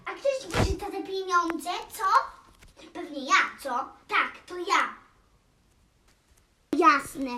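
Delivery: mock quarrel. Toy play quarrel over money.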